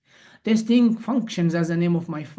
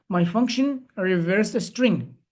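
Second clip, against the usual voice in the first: slowed down at a listener's request; slow and deliberate, x0.7 pace; slower; slower than usual. Real, not acted. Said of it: "could you please speak a little slower".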